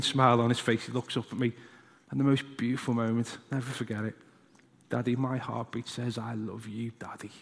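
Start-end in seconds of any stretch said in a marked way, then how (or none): 4.9-7.3 put-on much softer, hushed small boy; little son whispering to daddy; child's whisper. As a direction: breathe it like a sleepy child. Son whispers love to dad.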